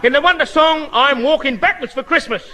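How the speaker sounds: lightly posh compere voice; cultured announcer. Acted. Asked by the showman, he announces the singer in a cultured voice. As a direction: announce the act with grand manners. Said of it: "talk this bit, what I read here".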